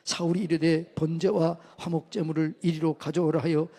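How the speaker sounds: even, measured verse reading in a narrow tune; formal, level Bible recitation; scripture reading. Real, not acted. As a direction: read the passage out steadily for all to follow. Reads scripture aloud to congregation.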